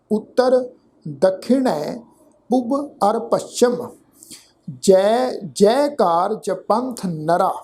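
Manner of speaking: slow, measured verse recitation; slow sacred verse, word by word; scripture recitation. Shown as a demonstration. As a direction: recite deliberately, drawing out the words.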